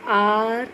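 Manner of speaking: आर drawn out as a vowel, the h silent; demonstrated pronunciation. Shown as a demonstration. Teacher shows pupils the silent H, आर slowly drawn out. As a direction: hold the open vowel at the start of आर. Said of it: "R is pronounced as O U R".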